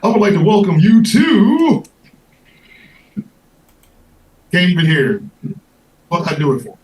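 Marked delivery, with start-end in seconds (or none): 0.0-5.2 booming announcer welcome; ringmaster. Acted. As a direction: open the show like a circus ringmaster. Ringmaster show opening.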